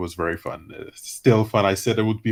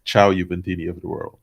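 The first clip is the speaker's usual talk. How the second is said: low announcer voice for an intro; deep voice; 4 semitones lower, 3 dB louder than usual. Shown as a demonstration. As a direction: drop it low like a channel intro. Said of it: "with my deep voice?".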